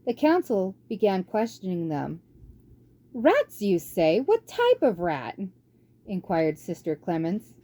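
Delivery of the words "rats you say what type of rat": put-on elderly nun. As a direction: probe with a fussy, curious question. Sister Clemens questions them.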